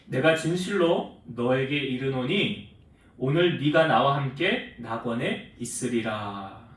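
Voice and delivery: lightly voiced Jesus, slow and grave; solemn voice of Jesus. Jesus answering the thief, grave and slow.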